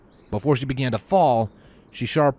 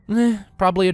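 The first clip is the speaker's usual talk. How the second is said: higher tomboyish pony voice; brash young mare; Rainbow Dash voice; 10 semitones higher, 5 dB louder, faster than usual. Acted.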